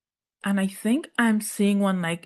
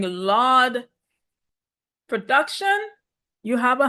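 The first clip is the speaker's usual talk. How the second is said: higher-pitched pleading with the producers; exasperated plea; 4 semitones higher than usual. Acted. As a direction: demand action from them, half in mock exasperation. Mock plea addressed to show's producers.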